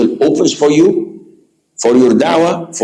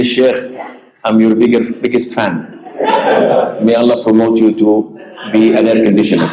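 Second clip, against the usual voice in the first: mocking fan quote; faster than usual. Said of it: "And you say".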